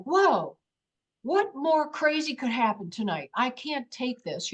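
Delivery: overwhelmed amazement. Retold or imitated. Woman watches the craft stop dead, retold overwhelmed amazement. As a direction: act out being astonished and at your limit.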